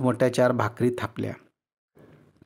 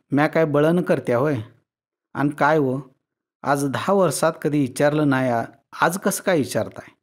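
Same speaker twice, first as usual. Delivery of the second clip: mild indignant wife, a bit higher; in a huff; 3 semitones higher than usual. Acted. Wife retorting to her husband's taunt, mildly huffy. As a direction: snap back, offended. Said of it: "फणकाऱ्यातच म्हणाली".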